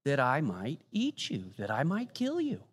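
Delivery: a hint of a sly hungry wolf; big bad wolf. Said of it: "what does the wolf say".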